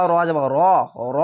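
র as a rounded "ro", no "aa"; heavy rounded vowel. Shown as a demonstration. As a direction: keep র thick and round. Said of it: "রা না বলে র". (র, আকার ছাড়া মোটা উচ্চারণ)

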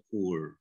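POOR as pur, one plain u vowel; simple U reading. Shown as a demonstration. Coach allowing the simpler reading, plain U sound. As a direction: say POOR with a single U, no glide. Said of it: "Jadi bunyi U gitu ya".

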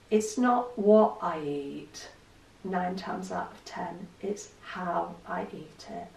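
slow, deliberate stress on what and how; slow emphasis. Real, not acted. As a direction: spell the point out slowly. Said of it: "stressing her key point slowly".

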